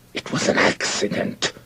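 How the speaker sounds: strained, hoarse-edged defensive shout; shouting back. A narrator's reading. Soldier to accusing friend after the shot, shouting back. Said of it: "The soldier shouted back".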